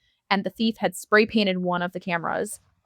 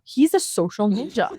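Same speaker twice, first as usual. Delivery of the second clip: laughing; 3 semitones higher than usual. Real, not acted. Laughs while repeating the joke.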